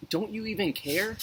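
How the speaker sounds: high, pleading desperate cry. Acted. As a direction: cry out to him in a panic. Disciples cry to Jesus.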